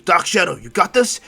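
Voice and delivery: loud check-in with a rising end; calling out. Acted. Tokiyami checking on Dark Shadow, calling out. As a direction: shout a question to a partner.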